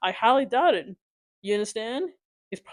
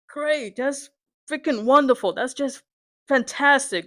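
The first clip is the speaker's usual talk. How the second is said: bitterly sarcastic, each praise word punched; 3 semitones higher than usual. Real, not acted. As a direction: fake enthusiasm dripping with frustration. Bitter fake praise after bad news.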